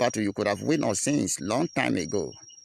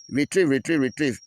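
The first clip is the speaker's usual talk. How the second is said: loud, higher-pitched taunting call back; defiant reply; 4 semitones higher, 5 dB louder than usual. Acted. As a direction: throw the retreat call back at them, loudly. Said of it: "we will also reply to them".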